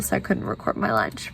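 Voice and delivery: hushed whisper so nobody hears. Real, not acted. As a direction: whisper it, someone's close by. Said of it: "I have to whisper".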